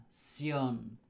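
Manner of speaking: "ción" as a firm SYON, falling; one stressed syllable, s-yon, for "ción"; stressed Spanish ending. Shown as a demonstration. Teacher isolates the ending for learners, stressed "ción". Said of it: "The emphasis at the end".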